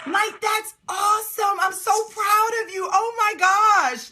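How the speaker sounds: high, gushing amazement; amazed praise. Real, not acted. Coach is proud of Lorraine's five submittals, amazed praise. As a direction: gush with proud disbelief.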